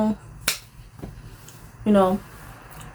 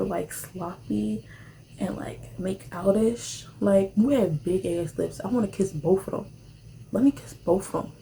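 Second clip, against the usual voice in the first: hushed; 7 dB quieter, slower than usual. Retold or imitated. Mimics his kissing talk.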